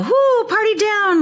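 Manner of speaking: high, slow mock cheer; a hammed-up sarcastic cheer; sarcastic whoo. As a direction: fake party excitement, dripping with irony. Mock excitement over plain ice cream.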